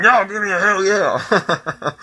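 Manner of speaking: slow drawn-out wrestler yell; hammed-up Stone Cold impression; Stone Cold catchphrase. Imitating Stone Cold to the wrestling crowd, slow and drawn out.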